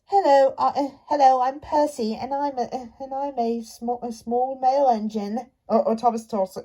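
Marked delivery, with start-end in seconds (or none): 0.1-5.5 a light imitation of Percy, close to his own voice; a polite little introduction in a lightly put-on voice. Imitating how Percy introduces himself, lightly voiced. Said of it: "Percy, like, uh, talks like this".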